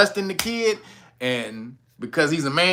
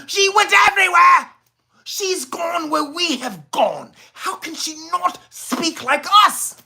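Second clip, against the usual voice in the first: mocking white outrage; 9 semitones higher than usual. Mocking white critics of Crockett's voice, high and building to a mock wail. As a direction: ham up white people's dismay, from yelling to fake sobbing. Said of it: "these Caucasian people".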